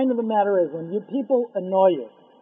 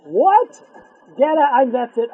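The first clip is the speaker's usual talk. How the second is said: higher, louder outraged snap; furious, quitting on the spot; indignant maid; 4 semitones higher, 6 dB louder than usual. Acted. Maid reacts angrily.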